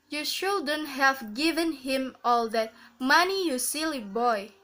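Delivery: put-on "money" as the peak, "you silly boy" falling away; takeoff intonation. Shown as a demonstration. Teacher repeating takeoff example, "money" lifted, "boy" falling. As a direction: lift "money" and let "silly boy" come down. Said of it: "takeoff intonation".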